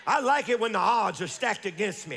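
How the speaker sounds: rhythmic, building sermon refrain; fervent preaching. Real, not acted. Preacher telling congregation when God shows up, fervent preaching. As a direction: drive each phrase home like a revival preacher. Preaches in driving repeated phrases.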